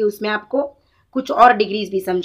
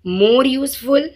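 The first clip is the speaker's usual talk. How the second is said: more useful stretched out very slowly, more leaned on; very slow demo; 3 semitones higher, much slower than usual. Shown as a demonstration. Teacher slowly modelling more useful for the students. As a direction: lay each word down slowly for pupils. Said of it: "superlative में क्या आएगा".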